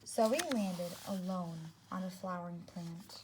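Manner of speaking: put-on storybook reading for young kids; children's story narration; read-aloud narration. A narrator's reading. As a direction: read it to a class, clear and gentle. Teacher reads picture book aloud.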